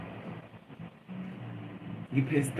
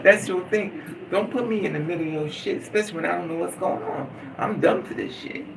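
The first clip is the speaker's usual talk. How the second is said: angry rant; 2 semitones higher than usual. Retold or imitated. Scolding him for telling her business, exasperated. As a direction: tear into him, fed up. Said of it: "And I'm like".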